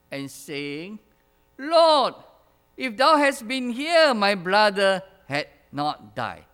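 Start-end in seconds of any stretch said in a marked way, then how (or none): 1.6-6.5 pleading Mary. Acted. Mary pleads at Jesus' feet.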